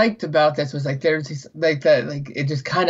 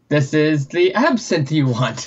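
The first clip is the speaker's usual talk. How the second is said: slow, lightly voiced haughty waiter; lightly mimicked French waiter, slow and knowing; snooty waiter; slower than usual. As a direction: hand down the order like a superior waiter. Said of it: "the waiter's just like".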